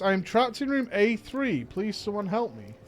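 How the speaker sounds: ghostly voice. Pretend. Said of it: "Ghostly voice".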